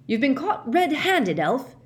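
loud accusing roar. A narrator's reading. Mister Diggory accusing Winky, loud roar. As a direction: hurl the charge at her. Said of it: "Mister Diggory roared".

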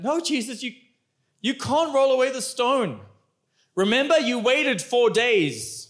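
a flustered Martha telling Jesus it's too late; Martha protesting. Acted. Martha protests to Jesus about the tomb, high and exasperated. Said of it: "She's like".

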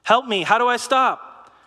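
desperate plea; a worried believer begging the Lord, pitched high; pleading worrier. Retold or imitated. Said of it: "You're like".

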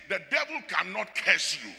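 ordinary talk

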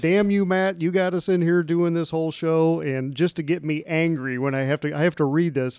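half-joking fury at his co-host; playfully cursing the host who made him read it; mock angry rant. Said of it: "I'm just angry".

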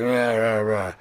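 low mock crowd rumble; cheering orc crowd. Crowd of orcs answering the halfling, rough mock cheer. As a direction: imitate a rowdy orc cheer. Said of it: "the crowd's like".

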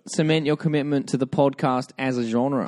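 hammed-up, badly faked Australian accent. Answering a co-host's jibe, struggling mock Australian accent. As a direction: press on with a shaky attempt at Australian. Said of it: "pursue an Australian accent".

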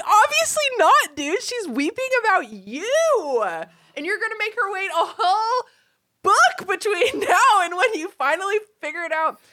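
high, laughing near tears; laugh-cry your way through the scolding. Retold or imitated. Mocking Ron for Hermione, laughing till near tears. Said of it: "some stupid part of his brain is like".

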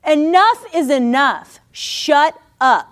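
exasperated rebuke, voice jumping up; fed-up command. Acted. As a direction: snap back at the taunting enemy. Yelling back at the enemy.

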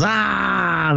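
long high "ah" of protest; mock mad crowd groan. Imitating the students who got kicked out, mock mad wail. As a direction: imitate an upset crowd's drawn-out cry. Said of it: "that are all mad".

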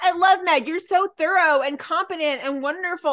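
mildly mock a devoted admirer; number one fan. Patient raving about the hospital, lightly gushing. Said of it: "like, Med's number one fan".

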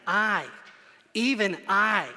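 each "I" set apart and leaned on hard; slow, separated words on "I" and "even I"; emphatic. Retold or imitated. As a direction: stress "I" and "even I" with pauses between. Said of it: "he says emphatically".

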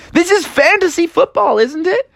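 high-pitched, puzzled objection; indignant protest. Acted. Froggy protests to friends.

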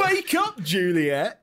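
high, loud stage cry; hammed-up tragic actor. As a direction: cry out in overblown theatrical despair. Actor delivering overdone tragic lines.

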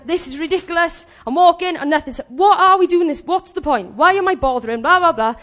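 mock mounting exasperation; frustrated complaint. Preacher voicing a walker's inner frustration, acted exasperation. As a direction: act out fed-up griping, trailing into dismissive filler. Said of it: "building up in your mind frustration".

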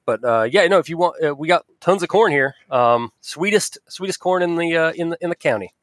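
lightly voiced farmer with Southern Ohio accent; touch of folksy Southern Ohio accent. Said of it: "I keep going to that accent".

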